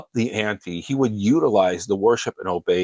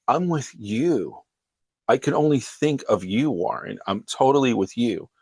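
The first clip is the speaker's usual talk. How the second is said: imitating an insistent wife, pitched up; mildly earnest reassurance; 3 semitones higher than usual. Wife reassures her doubting husband.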